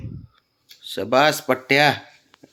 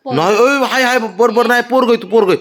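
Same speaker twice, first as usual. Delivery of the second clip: laughing apology; 6 semitones higher than usual. Real, not acted. Teasing apology to offended cat.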